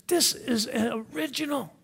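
high-pitched thrill of discovery; excited expert. Acted. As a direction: act out an expert thrilled by the find. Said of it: "And he's so excited".

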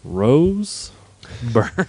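"Rose", a pause, then "Byrne"; teasing name echo. Pretend. Co-host teases host reading the cast list, drawn-out echo. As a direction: draw out "Rose" questioningly, then land "Byrne". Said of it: "You're doing it again".

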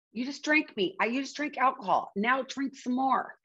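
a lightly voiced craving egging you on; tempting brain voice. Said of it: "And it's like".

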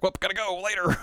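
high, breezy quick exit; lightly voiced carefree girl; breezy Usagi. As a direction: toss off a cheery goodbye. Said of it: "And Usagi's like".

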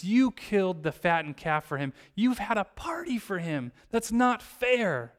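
mildly heated, aggrieved complaint; acted indignation. Older son confronting his father, mildly acted indignation. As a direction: protest with a touch of anger, slowing on the last words. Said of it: "The older son is so mad".

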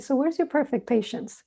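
lightly voiced innocent tease; very innocently. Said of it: "says very innocently".

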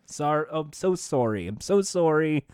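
put-on light Canadian accent on "sorry"; Canadian-accented game show apology. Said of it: "saying sorry with the Canadian accent".

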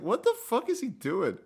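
high, laughing what-the-fuck; a fan laughing at a clip of Gobert touching the mics; laughing disbelief. Retold or imitated. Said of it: "I was just like".

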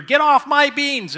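loud, high, slow yell. Retold or imitated. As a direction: shout it at the bear. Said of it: "I ran outside yelling at this bear".

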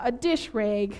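"rag" with an "ay" vowel, like "rayg"; Minnesotan "rag". Shown as a demonstration. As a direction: say "rag" to rhyme with "vague". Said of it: "hard time saying words with A Gs".

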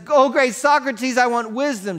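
high, loud desperate plea; pleading cry. Retold or imitated. Kid desperately begging Socrates for wisdom. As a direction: beg him with rising urgency.

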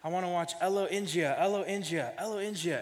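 a hint of a small child's insistent pitch; imitating toddler daughter. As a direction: mimic a little kid pleading for a show. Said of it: "she kept saying to me, and she's like".

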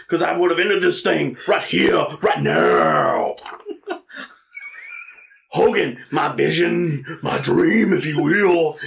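lightly voiced wrestler promo with laughter breaking through; half-laughing mock promo to Hogan; Vader promo. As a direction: keep the heel swagger while cracking up. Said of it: "pretty good Vader promo".

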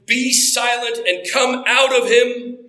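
commanding rebuke. Acted. Jesus rebuking the demon, slow commanding voice. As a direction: order the demon out with authority. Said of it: "Jesus shouts back in an even scarier voice".

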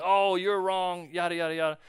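mock a preachy know-it-all brushing him off; a hint of a scolding believer; mock calling out. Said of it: "calling him out".

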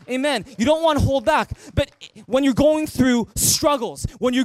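high, loud, rousing preaching; preaching at full force. Real, not acted. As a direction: fire them up to give everything. Pastor urges full worship.

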